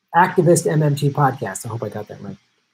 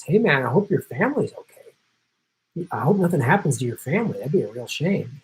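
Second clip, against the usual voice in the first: menacing CIA guy. Retold or imitated. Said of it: "this one guy goes".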